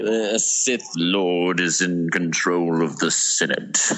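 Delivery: low, slow, unhurried delivery. Quoting a line from Attack of the Clones: Count Dooku voice. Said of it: "that's my Dooku impression".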